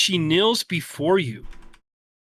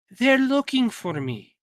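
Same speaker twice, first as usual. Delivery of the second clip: higher, far-off ghostly whisper of a voice; a dead sister's echo, higher and distant; ghostly fading voice; 8 semitones higher, 4 dB louder than usual. Acted. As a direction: sound like a spirit fading into light.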